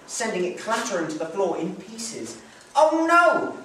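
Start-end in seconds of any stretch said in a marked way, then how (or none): 2.7-3.6 high, loud cry of dismay. Acted. Mother crying out as the milk jug breaks, dismayed. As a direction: yelp as the jug smashes. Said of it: "she cried".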